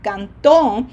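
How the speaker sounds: canto with the weight on TO; stress on final TO. Shown as a demonstration. Teacher naming the preterite form, canto stressed on TO. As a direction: push the last syllable of canto. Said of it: "that difference in pronunciation emphasis".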